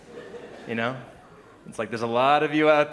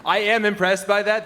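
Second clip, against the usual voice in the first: exaggerated wow, loud and high; overdone gasp of being impressed; mock amazement; 7 semitones higher, 9 dB louder, much slower than usual.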